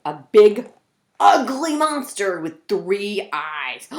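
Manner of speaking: drool over delicious Melvin; creepy hungry monster. Acted. Closet monster talks about Melvin, hammed-up hungry menace.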